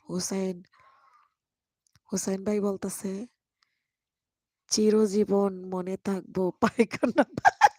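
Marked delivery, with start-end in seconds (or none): 4.7-7.7 reading the comment while breaking into a laugh; slow, a laugh bursting in mid-line; laughing through a quote. Real, not acted. Reading Husain's comment to viewers, laughing midway.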